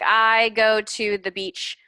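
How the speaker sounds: slow, careful example sentence; annually stressed on the first syllable; slow model sentence. Shown as a demonstration. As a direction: read it slowly for a learner. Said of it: "So it's like".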